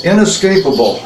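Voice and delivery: inescapable lightly leaned on, each syllable given weight; stress on inescapable. Real, not acted. Priest commemorating the second coming, stressing inescapable. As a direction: press on the word inescapable. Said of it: "I emphasize the word inescapable".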